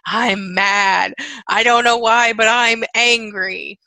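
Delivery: loud, hammed-up insistence; acted anger. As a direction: act out owning the anger, stretched at the end. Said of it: "claiming and owning something".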